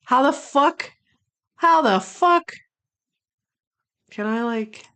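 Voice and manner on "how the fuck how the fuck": much higher, louder real fury; so mad. Real, not acted. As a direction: vent genuine anger at the tier list. Still outraged.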